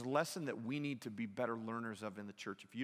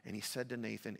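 ordinary talk, nothing marked

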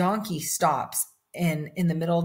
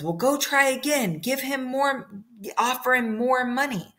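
higher, insistent royal voice, leaning on more; pushy king; 7 semitones higher than usual. Acted. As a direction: Moabite king sends his men back, high and insistent. King orders men to retry.

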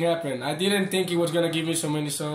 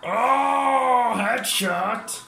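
loud, high startled oh; surprised shout; 7 semitones higher, 4 dB louder, much slower than usual. Real, not acted. Gamer gets hit by a headshot, loud startled shout. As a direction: blurt it out, caught off guard.

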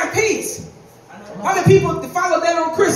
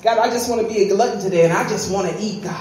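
confessional pleading; 5 semitones lower than usual. Acted. Acts out honest prayer of craving.

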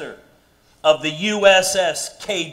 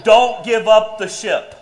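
motto said through a laugh; 3 semitones higher than usual. Shown as a demonstration. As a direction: laugh while saying it. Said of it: "not don't do drugs".

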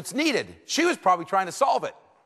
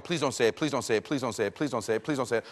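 inner pleading; 4 semitones lower than usual. Retold or imitated. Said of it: "I'm saying in my head".

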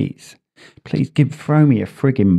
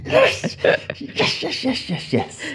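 excited; 13 semitones higher, 5 dB quieter, slower than usual. Real, not acted. Celebrating a correct answer.

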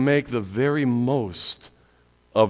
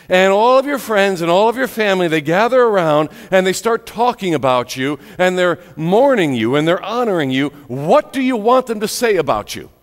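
raised, louder preacher's voice; impassioned preaching; 7 semitones higher, 6 dB louder, faster than usual. Acted. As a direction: press the question on the congregation. Preaches at rising force.

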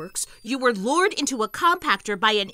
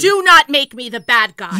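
angry outburst; 10 dB louder than usual. Acted. Chief snaps in heated argument.

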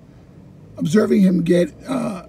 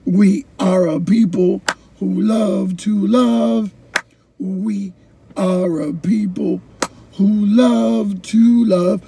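slow poet's recitation; slower than usual. Retold or imitated. Retelling poet's performance.

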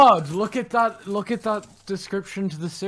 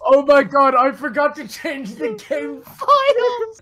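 high, loud and slow panic; dismayed realisation, drawn out; shocked; 10 semitones higher, 7 dB louder, slower than usual. Real, not acted. Realising the server mistake.

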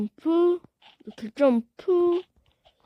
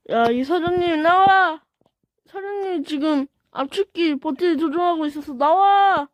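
calling out; 2 semitones higher than usual. Real, not acted. Yelling at boss character.

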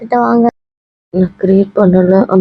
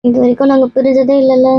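higher, upset protest; tearful; 4 semitones higher than usual. Acted. Friend explaining they have never been apart, tearful. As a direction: plead through acted tears. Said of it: "ஏன்டி இப்படி மூணு பேர் அழுதுட்டு".

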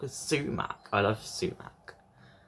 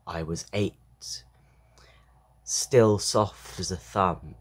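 measured poem recital with pauses; poetry reading; 5 dB louder, slower than usual. A narrator's reading. Reader sharing a poem about a father, measured recital. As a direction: read the poem line by line, pausing.

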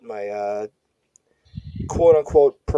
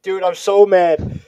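put-on Brooklyn accent; 6 semitones higher, 5 dB louder than usual. Mock mad Brooklyn rant.

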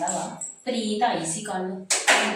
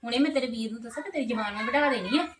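put-on raised voice, scolding a cheeky girl; angry scolding; 2 semitones higher than usual. Sister-in-law scolds the girl for her sharp tongue, angry raised voice. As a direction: tell her off sharply for talking back.

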